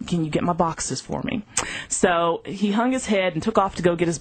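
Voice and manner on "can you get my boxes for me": soft, gentle, motherly firmness; calm him down softly; tender reply. Retold or imitated. Donna gently tells young Terrence she is leaving, soft and tender.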